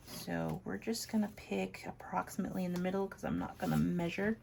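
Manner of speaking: talking around a marker in mouth. Real, not acted. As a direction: speak with a marker held in your mouth. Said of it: "I got a marker in my mouth".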